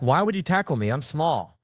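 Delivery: high-pitched comic complaint; indignant protest. Retold or imitated. Small man to the guy who tackled him, indignant.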